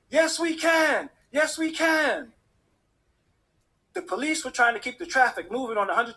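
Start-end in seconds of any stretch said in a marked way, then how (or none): 0.1-2.3 high, drawn-out rally chant; cheering crowd. Retold or imitated. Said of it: "the crowd cheered".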